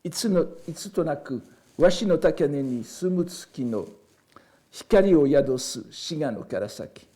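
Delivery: measured recital of a classical Japanese verse; poem read out in Japanese, phrase by phrase. Shown as a demonstration. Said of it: "je vous le lis donc d'abord en japonais".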